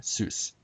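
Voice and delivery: ZEUS here is SOOS, the accented syllable; stressed syllable shown. Shown as a demonstration. Presenter marking the accent for viewers, stressed syllable shown. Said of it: "with the accent on".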